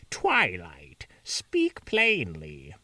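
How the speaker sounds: whispered then slow command; Wicked Witch voice. Acted. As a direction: hiss the name, then drag it out. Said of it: "make her sound like the Wicked Witch of the West".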